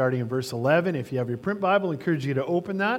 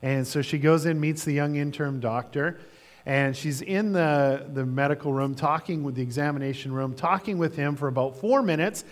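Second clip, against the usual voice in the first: ordinary talk, nothing marked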